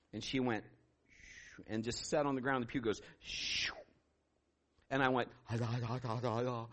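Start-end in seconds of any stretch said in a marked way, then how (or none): 0.6-1.7 long, hushed sliding noise; soft whoosh. Retold or imitated. Showing the woman easing down, soft imitated whoosh. 3.2-3.7 soft rushing "shoo"; sliding whoosh. Retold or imitated. Telling how the pew slid, imitated soft whoosh. 5.5-6.7 low, soft babble of syllables; speechless stammering. Retold or imitated. Pastor stunned by what he saw, mock stammering. Acts out own speechless reaction.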